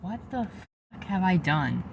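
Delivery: stunned. Real, not acted. Stunned after being kicked out.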